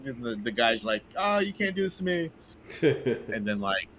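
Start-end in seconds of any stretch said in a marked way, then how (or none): 1.2-2.3 high, soft whiny plea; a higher, softer mock plea from the fired boss; whiny CEO. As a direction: beg like a fired boss who can't believe it.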